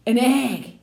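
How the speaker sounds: usual speaking voice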